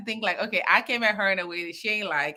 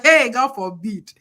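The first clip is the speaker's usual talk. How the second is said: mock alarm; 7 dB louder, slower than usual. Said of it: "I had to be like".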